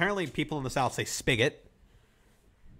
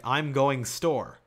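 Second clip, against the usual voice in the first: Michigan phrasing; 4 dB louder, much slower than usual. Shown as a demonstration. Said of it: "you don't use the word to".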